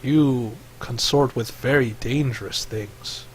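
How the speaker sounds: slow, measured creature voice, lightly acted; a slow, softened word of warning; lightly voiced snake sage, unhurried; Snake Face. Voices Snake Face's grave warning.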